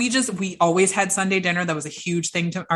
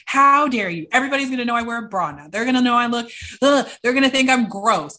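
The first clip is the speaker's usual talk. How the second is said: retold furious outburst; 4 semitones higher, faster than usual. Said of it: "I was furious with her".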